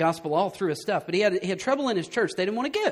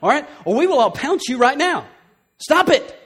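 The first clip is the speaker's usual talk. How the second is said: irritated warning; 6 semitones higher, 6 dB louder than usual. Retold or imitated. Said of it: "you start getting irritated with them".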